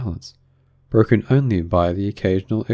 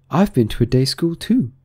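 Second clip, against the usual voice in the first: higher-pitched Alice; 6 semitones higher, 3 dB louder than usual. A narrator's reading. Alice matching the Mock Turtle's schooling, in a higher voice. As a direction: answer back in a raised, lighter voice.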